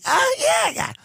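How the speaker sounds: airy high indifferent shrug. Retold or imitated. Host imitating himself shrugging off family death, airy. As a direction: toss it off like it's nothing. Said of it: "I would say".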